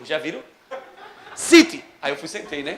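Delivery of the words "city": loud, high "City" like commanding a dog; dog trainer command. Retold or imitated. Driver ordering him to sit, dog trainer style. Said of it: "filme que o cara destra cachorro".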